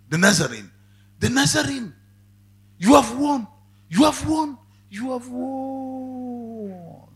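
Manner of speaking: high, loud anguished cry, last words stretched slow; deathbed cry of defeat. Retold or imitated. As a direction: cry out in despair, drawing out the final words. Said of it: "he cried out".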